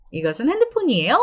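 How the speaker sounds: 핸드폰이에요 with the pitch going up at the end; rising question tune. Shown as a demonstration. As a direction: finish 핸드폰이에요 on a rise. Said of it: "In the end, alright?".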